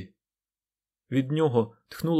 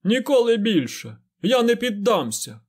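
high, loud defiant shout; shouted at the ceiling; 9 semitones higher, 4 dB louder than usual. A narrator's reading. Fain shouts his defiance up at the ceiling, loud and high. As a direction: throw your head back and yell it upward. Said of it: "прокричав кудись у стелю".

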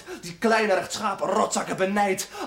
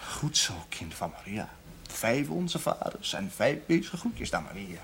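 imitating the pastor; 9 semitones lower, 6 dB quieter, slower than usual. Voices the old pastor.

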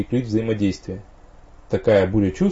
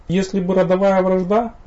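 dreamy; 10 semitones higher, 3 dB louder than usual. A narrator's reading. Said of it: "мечтательно протянула Вириена".

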